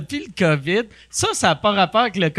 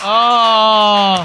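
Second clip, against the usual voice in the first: loud, astonished oh; delighted gasp; 4 dB louder than usual. Real, not acted. Listener reacts to the stolen money punchline. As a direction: gasp in shock at the twist. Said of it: "C'est parfait!".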